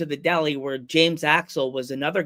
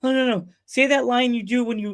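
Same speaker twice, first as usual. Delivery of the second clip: higher-pitched, eager demand; insistent fan; 8 semitones higher than usual. Retold or imitated. Fan begging for the sign-off, insistent. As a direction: press eagerly for the favorite line.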